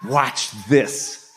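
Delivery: retold sly word to his friends; aside to friends. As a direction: drop it softly to your buddies. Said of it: "he tells his friends".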